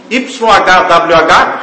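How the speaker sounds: Y H W H spelled out slowly letter by letter. Shown as a demonstration. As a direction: spell Y H W H one letter at a time. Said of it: "são as quatro consoantes". (Y H W H soletrado devagar)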